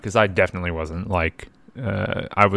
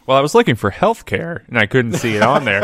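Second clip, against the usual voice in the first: joking quip; 4 semitones higher, 5 dB louder than usual. Real, not acted. Joke punchline, raised voice.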